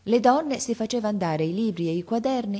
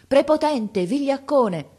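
molto più alto e più forte, sdegnato; grido di insulto; 9 semitones higher, 7 dB louder, slower than usual. A narrator's reading. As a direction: urla l'insulto al bullo. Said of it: "E gridavano a Franti". (donne che urlano sdegnate contro Franti)

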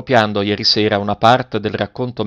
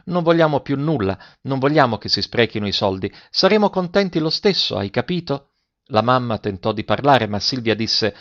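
put-on young girl Silvia, earnest. Silvia's voiced pleading speech.

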